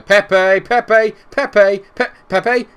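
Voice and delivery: loud, high repeated urging; calling out. Real, not acted. Manager urging Pepe on, loud calling. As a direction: call his name to make him pass.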